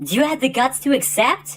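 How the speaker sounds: put-on female voice via changer. Voicing a character challenging Joey to a duel: Mai Valentine voice. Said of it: "my Valentine's voice".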